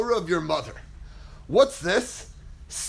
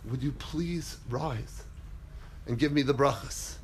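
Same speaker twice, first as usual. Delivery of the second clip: polite request; 9 semitones lower, 9 dB quieter than usual. Retold or imitated. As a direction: ask the father gently and humbly. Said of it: "Yaakov says".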